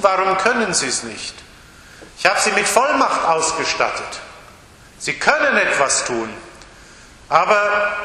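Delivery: a hint of a let-down teacher; disappointed Jesus. Jesus, let down by his disciples, mildly disappointed. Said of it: "schon ganz enttäuscht".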